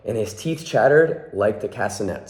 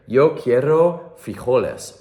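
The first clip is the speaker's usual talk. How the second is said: somber declaration; 3 semitones higher than usual. Acted. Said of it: "in his most somber voice and declared".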